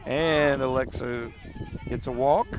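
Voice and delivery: live softball play-by-play. Acted. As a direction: call the game pitch by pitch. Calls the game live.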